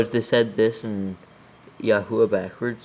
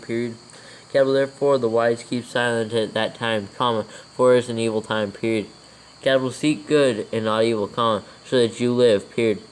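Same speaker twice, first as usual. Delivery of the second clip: dictating. Real, not acted. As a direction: read it out word by word for copying. Dictates scripture with punctuation.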